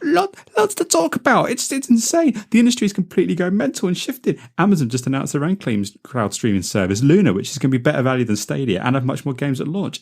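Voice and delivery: high squeaky frantic voice; hammed-up panic. Hammed-up panic over news.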